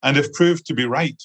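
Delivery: measured literary reading with short pauses between phrases; story narration. Acted. Author reads a young woman's notebook to the audience, measured narration. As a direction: read out the notebook's opening, phrase by phrase, lightly lifted.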